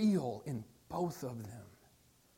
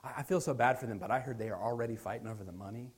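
softer, hushed funeral gossip; gossiping mourners; 7 semitones lower, 7 dB quieter, faster than usual. Retold or imitated. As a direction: whisper it behind someone's back. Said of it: "like at a funeral, where people are".

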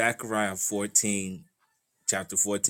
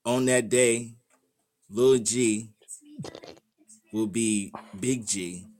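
slow, halting Gen Z slang delivery; Gen Z version; slower than usual. Shown as a demonstration. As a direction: try out the verse as Gen Z. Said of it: "Let me see if I can do this in the Gen Z way".

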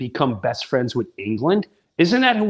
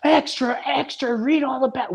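high-pitched street hawker call; old-time newsboy; 9 semitones higher than usual. Acted. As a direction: call out headlines to passers-by. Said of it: "back in the day when they'd go".

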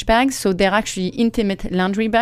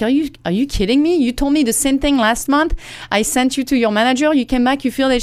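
faster, higher, fed-up retort; exasperated; 4 semitones higher than usual. Retold or imitated. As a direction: push it, openly indignant. Retold escalating clash with clerk.

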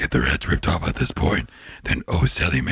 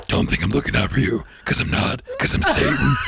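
Satan voice; 7 semitones higher than usual. Retold or imitated. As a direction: play a goofy Satan. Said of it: "I'm like".

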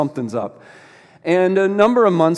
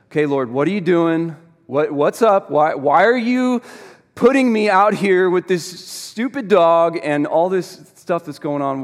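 raised, louder pleading protest to God; frustrated complaint; 3 semitones higher, 4 dB louder than usual. Retold or imitated. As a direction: reenact griping at God, exasperated. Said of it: "Okay, I'm angry, frustrated".

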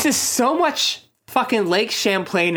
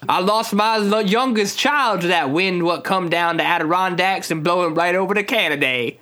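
put-on Vermont accent. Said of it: "how people talk in Vermont".

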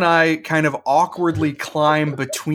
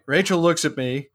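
usual speaking voice

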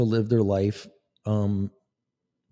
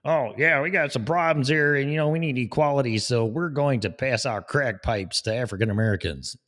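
higher, hammed-up official voice; mock official; 4 semitones higher than usual. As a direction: play a smug bureaucrat. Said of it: "I mean, please".

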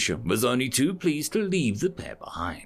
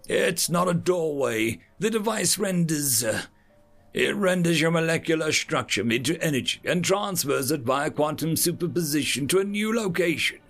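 a lightly voiced alien, patient and high; hint of a fussy alien creature; earnest alien lecturer; 5 semitones higher than usual. Alien Chorus explains the transmat.

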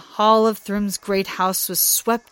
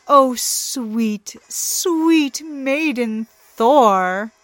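very slow sugary mockery; teasing sweetheart tone; mocking; 4 semitones higher, 5 dB louder, much slower than usual. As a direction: croon it to mock him. Loki mocking Thor.

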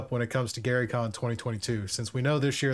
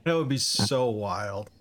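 slow amazed; 5 semitones lower, slower than usual. Real, not acted. Repeated reaction, slower and lower.

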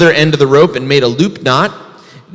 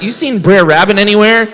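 grumpy bear; 7 semitones higher, 4 dB louder than usual. Acted.

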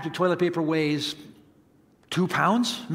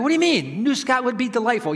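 mock protest; 5 semitones higher than usual. Protests to his disgusted kids.

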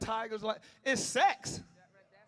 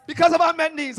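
louder echo of the line; loud repeat; 6 semitones higher, 14 dB louder than usual. Real, not acted. Preacher echoing the congregant's correction loudly. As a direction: repeat it, booming it back. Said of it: "I'm sorry. Yes, because of unmet needs".

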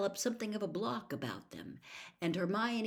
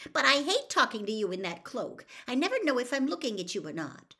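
irritated; 7 semitones higher, 5 dB louder, faster than usual. A narrator's reading. Hermione irritated.

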